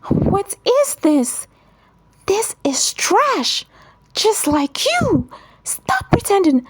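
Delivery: sneering. A narrator's reading. Michelle sneers at the toy he carved, high mocking voice. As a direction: sneer down at his gift. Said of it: "she sneered and said".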